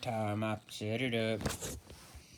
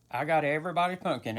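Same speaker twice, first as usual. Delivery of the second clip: triumphant; 3 semitones higher, 6 dB louder, faster than usual. Real, not acted. Triumphant repeat of the punchline.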